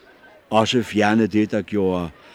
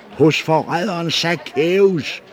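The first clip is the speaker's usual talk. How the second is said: slow, drawn-out shriek of the word traitor; screaming accusation; 7 semitones higher, slower than usual. A narrator's reading. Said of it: "skreg en anden".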